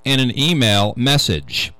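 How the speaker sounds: measured radio news-reader delivery. Real, not acted. Host reading a security news item to radio listeners, news read. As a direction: read the tech story out deliberately, phrase by phrase.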